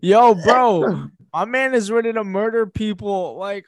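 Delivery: yo bro, get hyped; frat bro. Real, not acted. Hyped rant about Wolverine.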